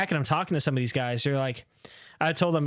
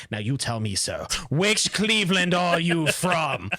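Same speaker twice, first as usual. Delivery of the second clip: mock menacing; 3 semitones higher, slower than usual. Pretend thug interrogating churchgoers about Cleveland, mock menacing. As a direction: play a movie thug with a switchblade. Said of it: "I take out a switchblade and I'm like".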